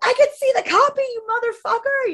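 re-enacted furious yell; retold screaming. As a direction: hurl it at the ex, screaming.

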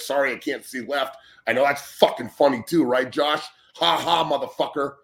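bitter sarcastic rant at Josh. Real, not acted. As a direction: lay into him, sarcastic and furious.

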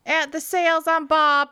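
high, loud redneck brag; loud hick voice. Pretend. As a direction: shout it like a proud hillbilly. Acting as Willie, loud.

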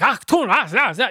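high-pitched fake German barking; mock German yelling. Shown as a demonstration. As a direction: bark nonsense like a caricature German. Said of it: "you're gonna be yelling and stuff".

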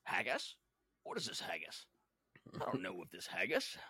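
low, puzzled mock-Spanish accent with Scottish tinge; bad Spanish accent, questioning lilt on haggis; Sean Connery doing Spanish. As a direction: play a baffled swordsman in a bad Spanish accent. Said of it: "He goes".

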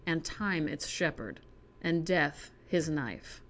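measured, even poem recital; reading a poem to viewers, measured. Acted. Reads a poem aloud.

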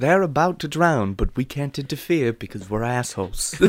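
lightly voiced documentary narrator; David Attenborough. Narrator explaining to viewers, Attenborough impression. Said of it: "have you seen what David Attenborough".

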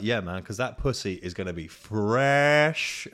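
slow, savouring each word; leering mate. Retold or imitated. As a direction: drag out the line with a leer. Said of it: "He's like".

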